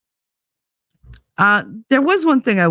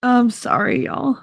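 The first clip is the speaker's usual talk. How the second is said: teary apology; 7 semitones higher than usual. Real, not acted. Apologizing while crying to viewers.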